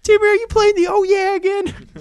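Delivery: very high scolding mother; nagging mom voice. Retold or imitated. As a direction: call out like an annoyed mom.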